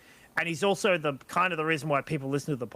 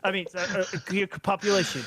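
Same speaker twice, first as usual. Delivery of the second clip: Alex Jones voice. Pretend. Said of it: "I'm trying to do the Alex Jones voice".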